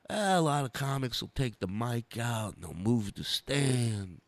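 a hint of Dice's lazy drawling rhythm, x0.7; Dice's cadence. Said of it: "It's the cadence, it's the rhythm, it's the sound".

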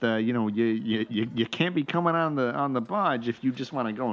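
lightly voiced New York teamster; poor New York accent. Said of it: "really poor New York accents".

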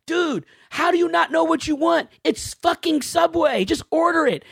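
high-pitched, impatient rant; exasperated. Retold or imitated. Waiting mail carrier inwardly scolding indecisive customer, exasperated. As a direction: scold in comic disbelief.

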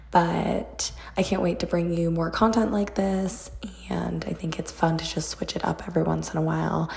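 hoarse near-whisper, voice gone; raspy whisper. Real, not acted. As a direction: push words through a lost voice. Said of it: "I have no voice".

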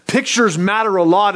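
ordinary talk, nothing marked

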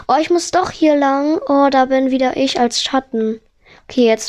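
ordinary delivery

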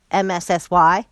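slow, letter by letter spelling; spelling it out slowly. Shown as a demonstration. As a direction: spell out the web address slowly.

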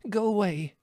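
high, small-voiced plea of a nervous rabbit; urgent. A narrator's reading. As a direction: blurt it out far up in pitch. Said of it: "said Fiver instantly".

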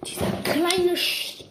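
slow seething rage; berserk rage. Real, not acted. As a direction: cut off mid-curse in anger. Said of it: "Weil ich raste gleich, glaub ich, aus".

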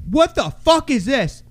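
acting out sideline disbelief and anger; retold outrage. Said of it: "I was fucking enraged".

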